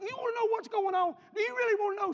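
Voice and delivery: high, very loud retold outburst; exasperated shout. Son answering his prying mama, exasperated acted shout. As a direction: yell the question as if finally fed up.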